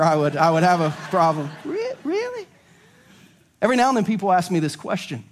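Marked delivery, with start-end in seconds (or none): 1.6-2.5 squeaky falsetto 'really'; as high as possible. Shown as a demonstration. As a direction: push the pitch to the very top. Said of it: "Can't get much higher".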